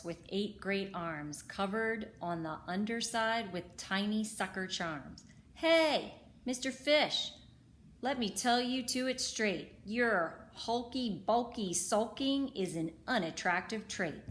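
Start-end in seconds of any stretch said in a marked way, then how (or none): 5.5-14.2 bossy octopus voice. Acted. Octopus scolds the fish.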